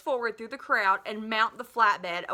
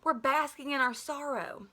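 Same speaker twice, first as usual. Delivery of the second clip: serene; 3 semitones higher than usual. A narrator's reading. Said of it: "he said serenely".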